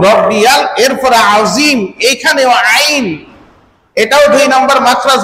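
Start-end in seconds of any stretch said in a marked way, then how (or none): 0.1-0.6 রব্বিয়াল with a clear ইয়াল ending; correct pronunciation. Shown as a demonstration. Preacher giving the correct রব্বিয়াল to the congregation. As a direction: sound the ইয়া in রব্বিয়াল distinctly. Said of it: "ইয়া লাম জবর ইয়াল".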